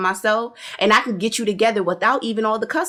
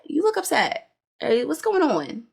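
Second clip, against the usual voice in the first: high, softer teasing questions; childish mock concern pitched up high; mock concern taunting; 7 semitones higher, 3 dB quieter than usual. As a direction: poke at her with fake sympathy. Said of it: "And Stormi's just like".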